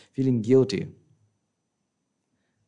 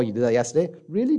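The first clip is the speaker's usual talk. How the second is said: mock surprise; 3 semitones higher, faster than usual. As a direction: pitch jumps way up in amazement. Feigned surprise at forgotten offence.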